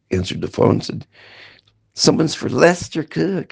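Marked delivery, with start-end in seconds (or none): 1.9-3.5 mock snide brother, higher and slow. Brother hands over the phone, mocking snide tone. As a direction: sneer the name out like a joke. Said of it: "he said, real sna-, snidely".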